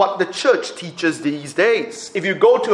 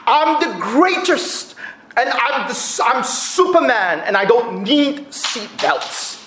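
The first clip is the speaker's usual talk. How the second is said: boastful; 3 semitones higher, slower than usual. Retold or imitated. Ali boasting to stewardess.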